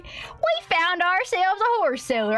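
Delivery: put-on an old Western cowboy drawling over good luck; folksy cowboy. Folksy cowboy character talk.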